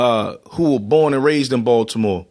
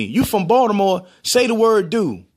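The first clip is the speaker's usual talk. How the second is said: higher-pitched goading request; teasing; 5 semitones higher than usual. Retold or imitated. Teaser testing someone from Baltimore, teasing. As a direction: imitate someone egging you on. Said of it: "Somebody used to always tease me".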